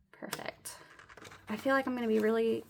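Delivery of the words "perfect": soft breathy whisper to herself. Real, not acted. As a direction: whisper it, pleased. Quiet aside after counting.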